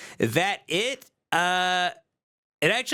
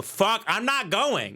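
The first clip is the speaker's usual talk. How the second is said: higher, slow mock-petulant refusal; imitated refusal; 4 semitones higher than usual. Husband refusing the dinner with his wife, mock fed-up. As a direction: dig in like a balking husband. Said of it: "And you go".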